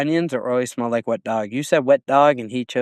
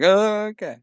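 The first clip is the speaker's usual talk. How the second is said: startled oh; 10 semitones higher, slower than usual. Retold or imitated. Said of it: "and I was like".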